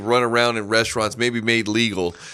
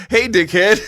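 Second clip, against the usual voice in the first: higher, louder squawky parrot insult; 10 semitones higher, 6 dB louder than usual. Retold or imitated. Parrot greeting the sister-in-law with an insult, squawky parrot voice. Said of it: "And the bird goes".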